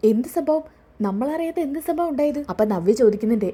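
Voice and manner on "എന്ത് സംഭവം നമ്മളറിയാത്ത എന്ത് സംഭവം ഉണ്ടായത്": higher, startled asking; surprised question. Acted. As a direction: pitch it up in quick surprise. Son hears of an incident.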